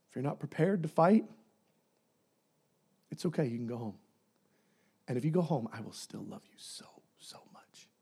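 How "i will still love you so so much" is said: very soft, low tender whisper; whispered tenderness. Acted. God whispering love to those who leave. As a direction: breathe it out lovingly.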